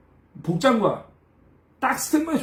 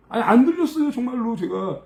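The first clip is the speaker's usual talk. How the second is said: acted protest. Assistant explaining himself to angry coworkers, protesting. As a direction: plead innocence, imitating his younger self. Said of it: "야, 얘기했죠".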